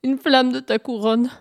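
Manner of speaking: small, pleading hare voice; timid request. Acted. Hare timidly asks the sun for a flame, pleading. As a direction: ask meekly for a big favour.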